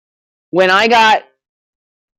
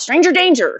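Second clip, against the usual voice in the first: mock dog thought; 11 semitones higher than usual. Dogs' thoughts voiced.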